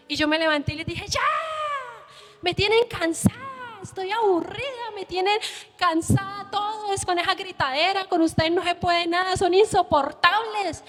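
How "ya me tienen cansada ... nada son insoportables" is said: exasperated scolding. Retold or imitated. Mother scolding kids.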